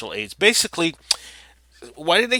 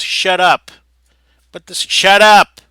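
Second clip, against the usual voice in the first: louder, higher "shut up!" snapped at the stock market; mock shout; 5 semitones higher, 12 dB louder than usual. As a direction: bark it like telling someone off.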